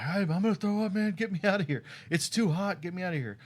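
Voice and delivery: high loud mock yell to the cop; retold yelling. Locked in the hot squad car, yelling to the officer. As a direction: plead loudly, voice way up. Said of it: "I'm yelling to the officer".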